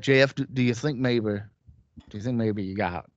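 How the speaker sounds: lightly attempted Conrad accent, badly done; halting go at imitating Conrad's accent; hint of a badly faked Conrad accent. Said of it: "that's a really bad accent".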